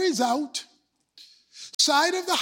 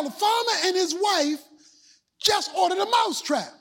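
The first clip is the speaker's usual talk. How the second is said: alarmed shout; 5 semitones higher than usual. Acted. Mouse shouts the trap news to the cow, alarmed. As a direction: shout it like a panicked little mouse.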